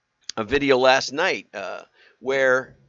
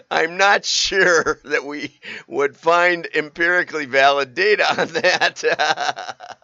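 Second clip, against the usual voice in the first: quoting Reem; 3 semitones higher, 5 dB louder, slower than usual. Retold or imitated. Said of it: "Reem explains".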